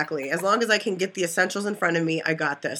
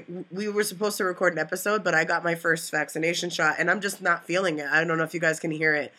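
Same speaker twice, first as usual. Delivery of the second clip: congested, slightly blocked nose; stuffy nose. Real, not acted. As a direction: talk through a stuffy nose. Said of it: "I'm a little stuffy".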